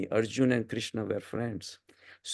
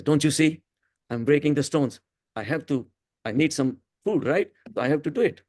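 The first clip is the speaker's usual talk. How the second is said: mild mock anger, a bit raised; a touch of an annoyed stone cutter; irritated retort; 4 semitones higher than usual. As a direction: answer back the question with half-acted annoyance. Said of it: "And the guy got so angry".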